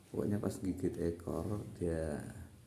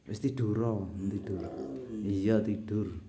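coaxing pet to sleep; 2 semitones higher than usual. Real, not acted. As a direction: coax the animal gently back to sleep.

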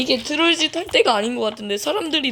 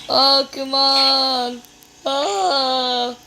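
drawn-out plea; 3 semitones higher, 3 dB louder, much slower than usual. Real, not acted. Begging attackers to stop.

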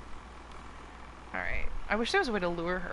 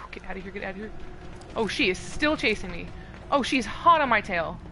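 being chased. Real, not acted. Chased by Chica.

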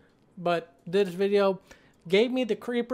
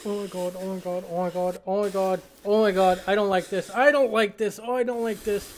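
scared horror game streamer; faster than usual. Real, not acted. Reacting to scary video.

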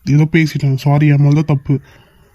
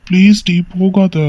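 pleading; 3 semitones higher, slower than usual. Acted. Husband begs wife not to leave.

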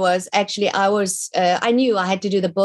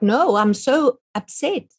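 upset; 6 semitones higher, slower than usual. Retold or imitated. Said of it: "I'm like".

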